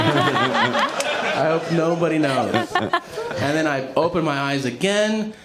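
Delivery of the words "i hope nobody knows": drawn out through laughter; slow, laughing repeat. Retold or imitated. Repeating his only thought to the audience, slow through laughter. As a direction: savor the punchline, slow and laughing. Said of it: "That's the whole thing".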